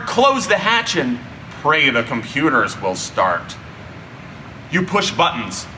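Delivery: ordinary delivery, nothing marked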